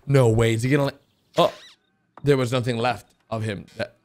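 ordinary talk, nothing marked

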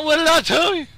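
high, crowing taunt; gloating yell. Real, not acted. Gamer gloating as his opponent flees, crowing yell. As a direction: rub it in at high pitch.

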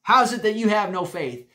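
loud, stern rebuke; firm, scolding question; Jesus sternly rebuking the disciples. Retold or imitated. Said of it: "I think he was very stern here".

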